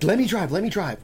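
quick imitation of a concerned roommate; urgent offer. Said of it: "he's like".

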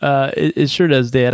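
blocked nose from pollen; stuffy nose. Real, not acted. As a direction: talk through a stuffed-up nose. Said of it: "if it sounds like I'm stuffy and my nose is running".

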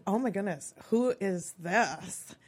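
lightly voiced Valley Girl, drawn-out "who is this"; Valley Girl awe at normal volume, slowing right down; eighties Valley Girl. Teen spotting a boy in the yearbook, lightly Valley Girl. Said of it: "said it in my best eighties Valley Girl voice".

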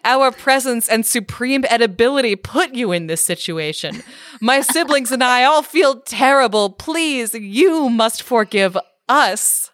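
hammed-up humble plea, slowing at the end; mock earnest goat. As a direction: eldest goat begging the troll's forgiveness. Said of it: "goes down on what passes for knees and said".

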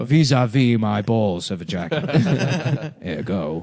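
slow, pompous pronouncement; grand, measured verdict tipping into laughter; the Architect. Acted. Riffing on the film's pet phrases, slow and pompous. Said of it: "the architect in the Matrix".

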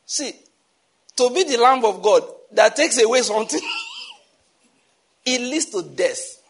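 high, laughing delivery that slows at the end; laughing through words. Real, not acted. Storyteller warning about taking on others' burdens, laughing. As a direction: crack up mid-sentence, then draw out the ending.

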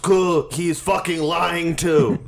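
slow, drawn-out fake French; half French, half English in a joke French accent; put-on French, dragged out; mock French accent. Joke French after French accent talk.

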